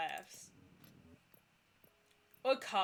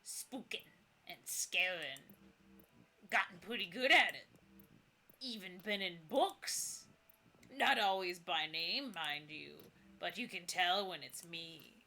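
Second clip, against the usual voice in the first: put-on creaky old ghost. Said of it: "The ghost voice creaks like ancient wood".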